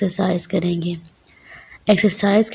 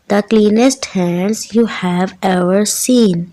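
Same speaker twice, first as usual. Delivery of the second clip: slow, deliberate poem recitation; poem read aloud; much slower than usual. Shown as a demonstration. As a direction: recite it slowly, word by word, for the children. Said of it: "ऊंची आवाज़ में पढ़ना". (कविता ऊंची आवाज़ में, धीरे-धीरे पढ़ते हुए)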